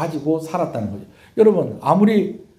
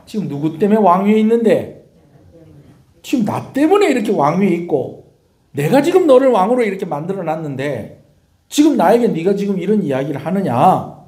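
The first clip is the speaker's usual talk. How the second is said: louder, higher, indignant general's rebuke; indignant retort; 4 semitones higher, 4 dB louder than usual. Retold or imitated. Preacher voicing Abner scolding the king, indignant and loud. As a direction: throw the favour back in his face. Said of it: "막 이렇게 이야기를 하는 겁니다".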